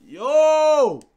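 high, loud drawn-out plea; desperate begging yell. Real, not acted. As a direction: cry out, begging for luck. Begging the pack for luck.

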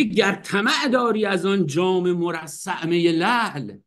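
slow recital of the verse; poem recitation. Shown as a demonstration. Teacher reciting the Hafez line again, slow recitation. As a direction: draw the verse out slowly. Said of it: "میگه".

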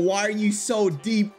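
high, slow mock repeat of the joke. Shown as a demonstration. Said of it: "and I said it again".

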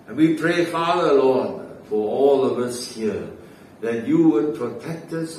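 rising and falling prayer cadence; fervent prayer. Real, not acted. Preacher prays to the Lord for the congregation, fervent prayer.

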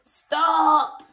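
loud, high ogre bark; growled stop. Acted. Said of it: "Growls the ogre".

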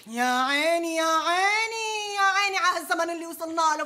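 mock lament. Lamenting the times.

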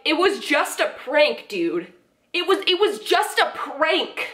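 slow, dopey mocking drawl; mock dumb prankster excuse. Commentator mocking the prankster boyfriend's excuse, slow dopey drawl. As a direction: play the clueless prank excuser, dragging it out.

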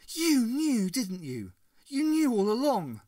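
loud, high accusing cry; hurt and accusing, near tears. A narrator's reading. Ace accuses the Doctor tearfully.

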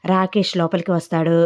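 usual speaking voice

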